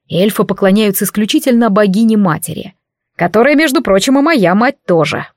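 grand, self-important declaration; pompous exclamation. Acted. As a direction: proclaim it like a vain god. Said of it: "пафосно воскликнул дядя".

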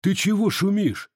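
high-pitched, defiant retort; loud challenge. A narrator's reading. Cossack loudly challenging the officer who gave orders. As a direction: talk back as if calling across a room. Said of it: "громко сказал один из казаков".

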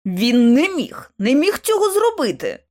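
astonished denial, stretched out; stunned disbelief. A narrator's reading. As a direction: repeat it slowly, as if unable to believe it. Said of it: "вражено повторив Локвуд".

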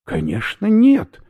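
high, loud indignant retort; offended at the very idea. Acted. Professor indignantly denies speaking, loud high retort. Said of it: "возмутился профессор".

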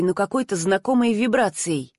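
ordinary delivery

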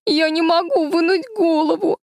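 высокий, громкий плаксивый вскрик; захныкать от испуга; плача. A narrator's reading. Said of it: "заплакала она". (плачущим голосом девочки)

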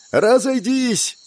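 very high, long-drawn yell; shouted command. A narrator's reading. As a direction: clear the way with a stretched-out cry. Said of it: "закричала Катарина".

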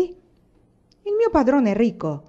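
slow, high-pitched indignant objection; protesting. A narrator's reading. Miller defending his master to Carchide, protesting. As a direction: insist on it, stretching the words. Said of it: "protestò il mugnaio".

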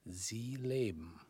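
very slow, breathy whisper. Acted. Visitor slowly whispering in wonder at his old enemy. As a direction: marvel at it under your breath. Struck by seeing him alive.

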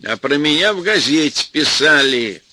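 shouting. Acted. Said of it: "тоже закричал Веня".

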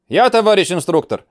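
high, loud calling out; shouted roll call. Acted. Recruit answers smartly.

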